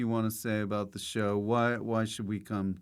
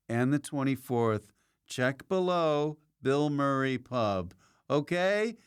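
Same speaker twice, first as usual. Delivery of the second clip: slower, higher outro read to viewers; upbeat host sign-off; 4 semitones higher than usual. Real, not acted. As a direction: thank the viewers and plug the shows, unhurried and lifted.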